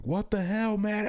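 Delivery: a hammed-up impression of mom yelling; mock yelling mom. Dad imitating his wife scolding their son, mock yell. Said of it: "Stephanie starts yelling immediately".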